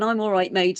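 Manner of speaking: lightly imitated Devon farmer; mimicked rural Devon reply; broad Devon accent. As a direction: give it a touch of broad Devon. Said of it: "gave me this broad Devon".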